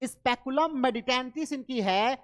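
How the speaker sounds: very slow, each syllable of the title laid out; teacher dictating a book title slowly; slow dictation. Shown as a demonstration. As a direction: spell the title out slowly for students to note. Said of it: "लेकिन आपके दिमाग में होना चाहिए".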